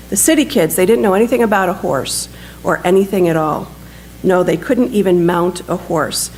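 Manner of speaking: measured storytelling with livelier pitch movement; lightly animated reading from a book; story narration. A narrator's reading. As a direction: read the war story aloud to an audience. Reads a written war story aloud.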